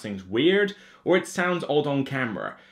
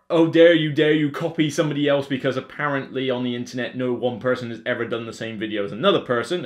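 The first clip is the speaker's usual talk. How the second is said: sarcastic troll; 2 semitones lower than usual. Retold or imitated. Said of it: "that's more trolling than abuse".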